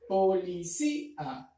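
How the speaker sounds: policía said slowly with a break at the hiato; split into syllables. Shown as a demonstration. Teacher separates policía for the students. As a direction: mark the gap between -cí- and -a. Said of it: "también en esta parte se forma el hiato".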